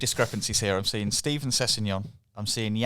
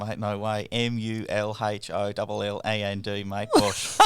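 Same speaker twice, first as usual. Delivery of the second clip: surname spelt out slowly in Australian; Australian accent; slower than usual. Pretend. Player spelling his surname on request, Australian accent. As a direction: put on a light Aussie twang. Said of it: "Spell out your surname in, in Australian".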